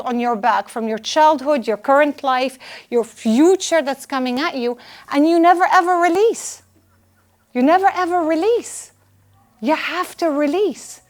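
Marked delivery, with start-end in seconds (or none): 5.1-8.9 "never ever" pushed high and hard, both times; stress on never ever. Real, not acted. Coach urging the audience to let go, "never ever" stressed. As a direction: drive "never ever" home, pitched way up.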